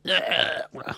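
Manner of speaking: voiceless mock choking; imitated death noise. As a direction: croak out a pretend last gasp. Repeats the dying woman's noise.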